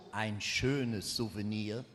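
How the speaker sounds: very low, slow and hushed; mock whisper. Westerwelle confides over a pocketed spoon, hushed mock whisper. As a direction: confide it softly, drawn out, like a thief. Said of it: "flüstert mir zu".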